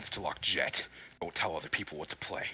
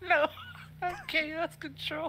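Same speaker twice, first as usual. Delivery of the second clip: much higher, slow, drawn-out cry; hammy hero voice, stretched; Sonic voice; 5 dB louder, much slower than usual. Acted. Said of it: "the Sonic voice".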